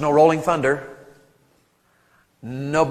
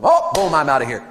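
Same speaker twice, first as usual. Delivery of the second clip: flat singsong da da, sagging lower; mock dismissive skimming; bored reader; 5 semitones lower than usual. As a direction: rattle through it without caring. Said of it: "Don't just be like".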